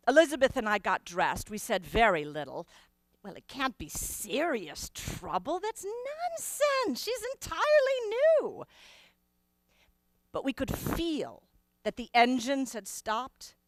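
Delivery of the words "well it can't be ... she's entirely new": nervous denial, voice lifting high; forced reassurance. Acted. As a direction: talk yourself out of fear, pitched up. Reassuring herself against fear.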